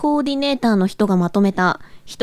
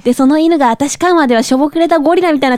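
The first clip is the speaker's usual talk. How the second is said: japanese gyaru slang; 3 dB louder than usual. Acted. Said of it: "ギャルっぽく無理があるよね".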